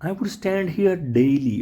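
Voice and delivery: each word spelt out slowly; slow dictation pace. Shown as a demonstration. Teacher dictating to the class, slow. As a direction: read it slowly for the class to copy. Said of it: "તમે કહેશો".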